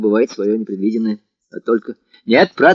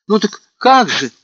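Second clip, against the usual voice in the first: naive, sad question; 9 semitones higher than usual. A narrator's reading. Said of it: "наивно произнёс Алёша".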